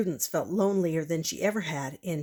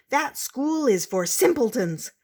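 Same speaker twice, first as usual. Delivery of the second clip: louder, higher scorn; indignant; 6 semitones higher, 6 dB louder than usual. Acted. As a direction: spit out the insult. Professors in rage.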